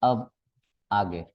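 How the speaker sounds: deep, drawn-out TV recap announcer; Shaktimaan recap voice. Retold or imitated. Recalling the Shaktimaan recap to students, low announcer tone. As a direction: drop low and stretch आगे like a serial recap. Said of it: "याद है जब मैं ये बोलता ना अब आगे".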